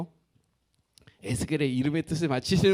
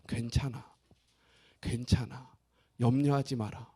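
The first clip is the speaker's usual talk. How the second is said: much softer, lower, tender reassurance; God comforting; 6 semitones lower, 6 dB quieter than usual. Acted. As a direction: soothe a broken people gently. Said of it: "하나님이 위로하시기 시작합니다".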